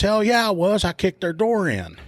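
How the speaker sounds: high, cocky voice of the suspect boasting; bragging suspect. Retold or imitated. Suspect boasting to the arresting cop, high and cocky. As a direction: brag it like you're proud of it.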